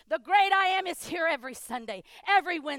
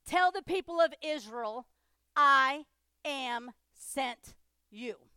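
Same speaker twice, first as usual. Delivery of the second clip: slow, measured divine declaration; a touch of grave God; solemn God voice; 2 semitones lower, slower than usual. Acted. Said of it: "God said to Moses".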